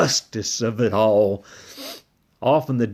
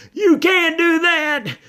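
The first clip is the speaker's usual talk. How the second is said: very high, worried squeaky voice; a nervous pup whispering from the door; timid little dog; 3 dB louder than usual. Acted. Drover's high character voice.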